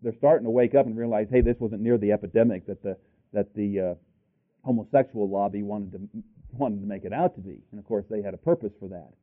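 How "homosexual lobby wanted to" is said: normal talking voice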